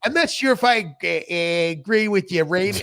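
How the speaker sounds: attempted Boston accent, halting. Shown as a demonstration. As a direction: read it in a shaky Boston accent. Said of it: "Let me read one sentence in Boston".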